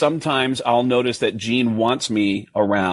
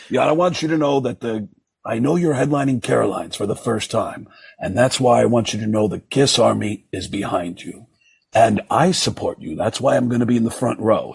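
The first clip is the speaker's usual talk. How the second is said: A rock musician's voice. Retold or imitated. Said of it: "I still have this voicemail".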